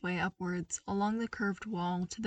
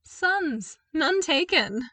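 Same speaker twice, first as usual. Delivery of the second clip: chuckling; 9 semitones higher, 7 dB louder, much slower than usual. Acted. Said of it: "as he continued to chuckle".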